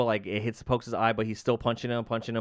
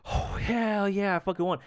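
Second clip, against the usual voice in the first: mock victory cheer; 9 semitones higher than usual. Acting out the fighter who thinks he won, excited cheer. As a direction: imitate a fighter celebrating the win. Fighter's hype after winning, retold.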